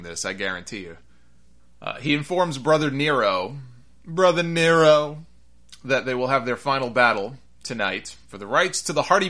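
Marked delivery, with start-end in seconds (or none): 4.0-5.2 squeaky helium hologram voice, slowed; like he sucked a balloon dry; mock helium voice. Broken Matt's hologram taunts Brother Nero, mock helium squeak. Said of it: "sounding like he just inhaled, uh, two tons of helium".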